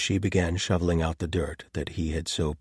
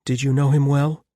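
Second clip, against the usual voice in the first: lightly higher female character voice; Clara's voice; 8 semitones higher, 9 dB louder than usual. A narrator's reading. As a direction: voice Clara, brisk and dry. Clara asks.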